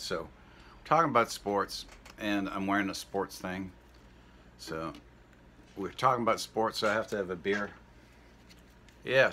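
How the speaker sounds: a light put-on Saskatchewan Canadian accent, heavy on eh. Comic Canadian character talking sports to American viewers, in a mild Saskatchewan Canadian accent. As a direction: play a small-town Saskatchewan guy, Canadian accent, chatty. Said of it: "I'm speaking in my real Saskatchewan Canadian voice".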